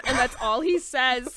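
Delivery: ordinary talk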